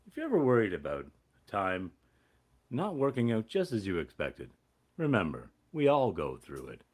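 a hint of a wise TV father; sitcom dad. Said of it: "like those guys from those ... eighties sitcom dads".

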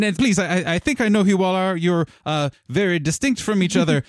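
high, flustered and hurried; excited welcome. Acted. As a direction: stumble over yourself welcoming guests in. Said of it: "while excitedly welcoming you guys in".

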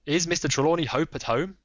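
lightly voiced firm detective; Holmes. Holmes pressing the lady, lightly voiced firm.

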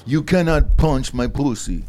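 slow, mock Israeli accent; put-on Israeli accent. Joking about Israeli women soldiers, in a mock Israeli accent. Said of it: "what accent was that?".

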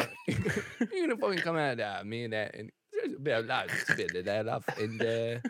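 put-on rambling, half-mumbled English accent; mock British accent. Co-hosts say he sounds drunk, slurry British impression. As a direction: babble like a tipsy Englishman. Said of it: "he's Russell Brand".

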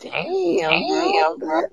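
high, loud laughing "damn, damn"; real laughter, voice jumping up. Real, not acted. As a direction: crack up mid-word. Cracking up at friend's reaction.

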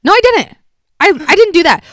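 mock gaslighting brother. Imitating the brother denying what he said, high and insistent. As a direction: deny it all, sounding innocent. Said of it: "And he'll be like".

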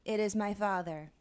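slow, lifeless church reading; flat reading. Retold or imitated. Parishioner reading Jesus's line with no feeling. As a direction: read it dead and deliberate. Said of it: "someone would be like".

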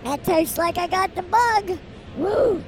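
reacting to a swallowed bug; just swallowed a bug. Real, not acted. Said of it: "I ate a bug that time".

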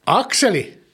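high-pitched call of a name. Acted. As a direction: call your child by name, pitch lifted. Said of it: "Kun minä huudan".

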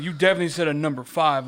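retold accusing retort; imitated accusatory tone. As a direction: accuse like a drive-through worker, rapid and pushy. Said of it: "She was very accusative".

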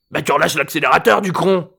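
high, mocking grandfather retort; scoffing old man. A narrator's reading. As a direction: scoff at the dumb question. Old man answers gruffly.

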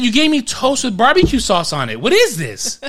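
incredulous, laughing through it; laughing disbelief. Retold or imitated. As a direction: complain while cracking up. Retold complaint while laughing.

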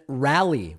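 Raleigh said as "RAL-ee", first vowel as in "cat"; trying a pronunciation. Shown as a demonstration. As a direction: say Raleigh to rhyme with "alley". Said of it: "what is the right pronunciation".

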